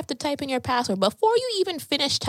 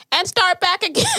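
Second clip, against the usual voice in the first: higher and louder, slowed like a booming presenter; mock loud restart; 8 semitones higher, 6 dB louder than usual. Imitating loud classmate's presentation, mock booming. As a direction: boom it out like the classmate at ten.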